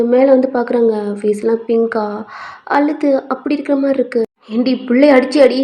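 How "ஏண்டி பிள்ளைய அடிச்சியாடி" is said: mildly heated domestic argument; acted husband-and-wife squabble, lightly raised pitch; parents quarrelling. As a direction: bicker over the sick child. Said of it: "கொஞ்சம் சண்டை போய்கிட்டு இருக்கு".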